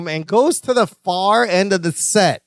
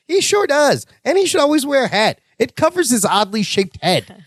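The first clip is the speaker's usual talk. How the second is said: lightly voiced higher Marianne, teasing; a hint of a sly coworker's dig; mock sweet catty coworker; 5 semitones higher than usual.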